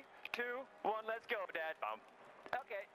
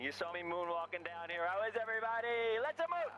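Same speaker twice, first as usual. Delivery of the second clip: excited; 4 semitones higher than usual. Acted. Stormtrooper greets crowd, cheering.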